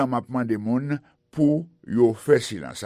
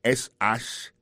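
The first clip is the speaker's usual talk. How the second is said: spelled slowly; 4 dB louder than usual. Shown as a demonstration.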